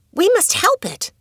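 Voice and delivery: put-on high young girl's voice, urgent; eager girl. A narrator's reading. Adoet urging her cousin, high and eager. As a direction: she insists on saving the bird. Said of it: "exclaimed Adoet".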